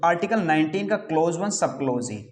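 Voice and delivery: आर्टिकल नाइनटीन का क्लॉज वन सब क्लॉज ए, each part read out in full; proper reading. Shown as a demonstration. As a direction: spell out क्लॉज वन सब क्लॉज ए. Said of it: "इस प्रकार से इसका उच्चारण करते हैं".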